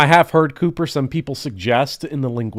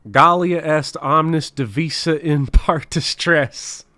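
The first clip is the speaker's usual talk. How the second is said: slow, stately oration; measured classical declamation; grand Latin recital; slower than usual. Shown as a demonstration. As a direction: declaim it like a Roman senator. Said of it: "To really kinda amp it up there".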